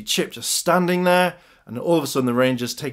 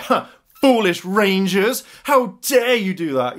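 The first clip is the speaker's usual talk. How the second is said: slow, higher, haughty villain scorn; villain taunt; 6 semitones higher, 4 dB louder, slower than usual. Acted. Gia turned evil, mocking the Rangers, villainous. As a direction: taunt them slowly, drawing out the words.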